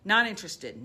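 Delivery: loud, defiant call-out to Dad and Mom; loud defiance of the inner critic. Shown as a demonstration. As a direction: talk back to the parents' voices, loud. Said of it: "You're gonna name it".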